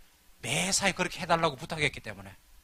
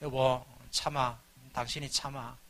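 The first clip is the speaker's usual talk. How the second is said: soothing, slow; 6 semitones lower, 3 dB quieter, slower than usual. Retold or imitated. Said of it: "이러길래".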